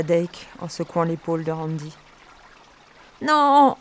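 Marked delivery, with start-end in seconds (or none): 3.2-3.8 high, loud shriek of refusal; cri aigu. A narrator's reading. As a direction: scream it out, high-pitched. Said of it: "Hurla Laverne d'une voix aiguë". (hurlement d'une voix aiguë)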